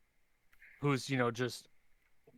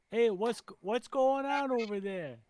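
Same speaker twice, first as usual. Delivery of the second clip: high, drawn-out call to the enemy; lightly hammed-up goblin calling out; goblin parley; 9 semitones higher, slower than usual. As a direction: stretch it out high, hailing the other side. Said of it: "I'm gonna yell in Goblin".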